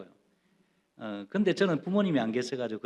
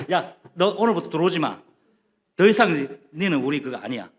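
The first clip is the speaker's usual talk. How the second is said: acted-out scolding, a touch louder; mock parental scolding; 3 semitones higher, 5 dB louder than usual. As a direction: play a parent disowning the kid in anger. Acts parent disowning the child.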